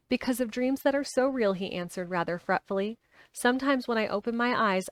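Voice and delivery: reading a novel aloud; steady storytelling read; story narration. A narrator's reading.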